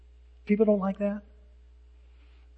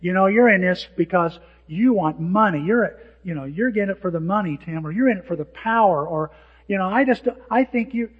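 accusing; 5 dB louder than usual. Retold or imitated. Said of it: "somebody saying".

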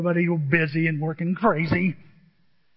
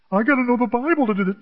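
mock doubter; 4 semitones higher, 4 dB louder, faster than usual. Mimics a hesitant believer.

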